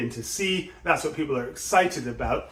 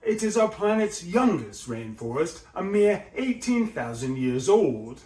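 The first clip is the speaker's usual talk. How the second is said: rise and fall; 3 semitones higher than usual. Shown as a demonstration. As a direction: rise on our, fall on eighteen to finish. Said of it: "we've got the rise and fall there".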